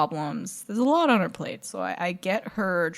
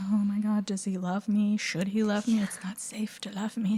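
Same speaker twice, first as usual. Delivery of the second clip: mock teen angst; 5 dB quieter than usual. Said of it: "the constant, like".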